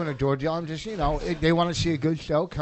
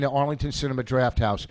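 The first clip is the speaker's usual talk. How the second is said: words round a wad of gum; talking with gum in the mouth; chewing gum; 4 semitones lower than usual. Real, not acted. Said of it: "I got gum in my mouth".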